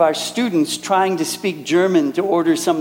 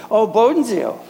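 a touch of recognition, higher; mild surprise; 5 semitones higher than usual. Retold or imitated. Preacher quotes a neighbor recognizing the school, mild surprise. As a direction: imitate a neighbor placing the name, lightly surprised.

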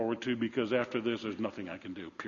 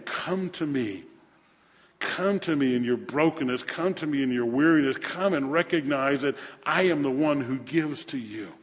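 earnest sermon invitation; preacher's appeal; 3 semitones higher, 4 dB louder than usual. Acted. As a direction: call them to come, with measured insistence. Preacher voices God's appeal.

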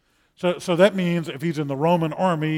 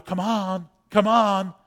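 calling the sheep; 6 semitones higher, 6 dB louder, slower than usual. Retold or imitated. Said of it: "he would holler".

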